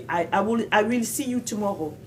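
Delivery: put-on every word of "I will see you tomorrow" sounded, French accent; careful learner's English with a French accent. Imitating their earlier naive English, French-accented. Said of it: "ma prononciation n'était pas la bonne".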